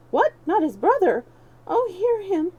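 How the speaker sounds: hammed-up moaning beggar. A narrator's reading. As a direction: play wounded to win sympathy. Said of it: "moaned Hugo".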